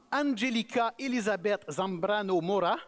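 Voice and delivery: name said with an attempted Spanish accent; amateur Spanish accent on the name. Shown as a demonstration. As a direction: give the name a Spanish pronunciation. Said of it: "Excusez mon accent, euh, espagnol".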